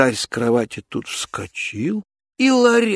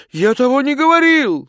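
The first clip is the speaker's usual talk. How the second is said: loud, higher cry of protest; Ivan shouting; 11 semitones higher, 6 dB louder than usual. Acted. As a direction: shout back the denial. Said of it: "закричал он".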